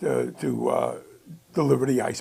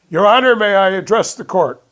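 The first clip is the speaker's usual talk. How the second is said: smooth lawyer; 5 semitones higher, 8 dB louder than usual. Retold or imitated. Business guy addresses the judge.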